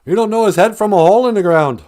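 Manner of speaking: hammed-up grandpa saying; imitating grandpa. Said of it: "as my grandpa would have said".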